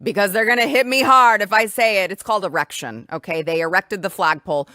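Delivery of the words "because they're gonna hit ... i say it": imitating Trump. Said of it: "He said it was the E word".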